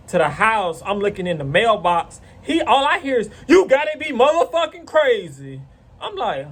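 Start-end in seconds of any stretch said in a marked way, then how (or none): 3.5-5.6 tag. Retold or imitated. Neighbor's angry yell, retold.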